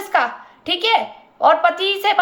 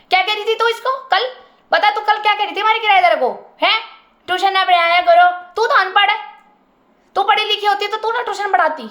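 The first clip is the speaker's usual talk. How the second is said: angry scolding; 3 semitones higher, faster than usual. Retold or imitated. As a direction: mimic the women scolding her, raised and fast. Neighbour women berating her.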